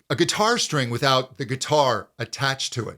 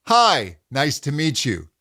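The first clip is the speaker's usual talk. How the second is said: resonant optimal pitch. Shown as a demonstration. Coach contrasts with a resonant greeting. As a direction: lift the hi up bright. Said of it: "Really feel that difference".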